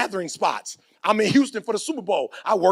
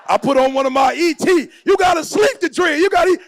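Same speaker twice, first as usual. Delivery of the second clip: hyped shout; 8 semitones higher, 4 dB louder than usual. Real, not acted. Excited about his own song.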